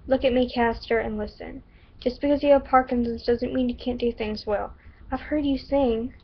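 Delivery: put-on stereotypical Southern accent, earnest. Shelby reassures Caster about Parkinson's, Southern accent. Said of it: "stereotypical Southern accent".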